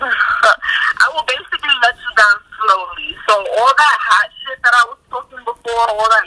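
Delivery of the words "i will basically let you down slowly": whispered through giggles; can barely get it out for laughing. Real, not acted. Telling the host about letting men down, laughing. Laughing while explaining let-down.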